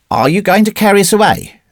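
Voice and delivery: put-on high-pitched, uneasy child; blanched, uncomfortable boy. A narrator's reading. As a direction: ask as a small boy losing his nerve. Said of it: "very blanched and uncomfortable".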